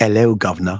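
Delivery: put-on London accent. Trying out an accent on Chrissy, imitating Chrissy's London accent. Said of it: "I think I can do your accent back".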